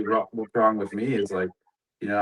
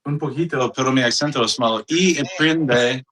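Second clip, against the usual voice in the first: gringo accent speaking Spanish; Spanish with a heavy American accent; 4 semitones higher, 4 dB louder than usual. Real, not acted. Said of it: "You sound like a gringo".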